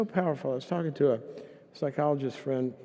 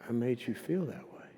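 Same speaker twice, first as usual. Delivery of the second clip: heartfelt apology; 4 dB quieter than usual. Retold or imitated. Apologizing for making someone feel that way, heartfelt. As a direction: offer a tender, hushed apology.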